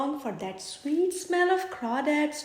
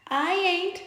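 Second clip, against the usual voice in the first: snooty refusal; 5 semitones higher, 4 dB louder than usual. Acted. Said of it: "snouts Madam Skunk".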